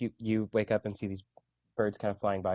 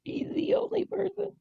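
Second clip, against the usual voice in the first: whispered owl voice. Acted.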